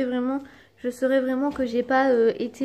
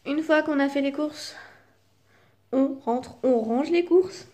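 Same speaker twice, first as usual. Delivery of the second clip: talking through hiccups; words broken by a hiccup. Real, not acted. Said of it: "j'ai le hoquet".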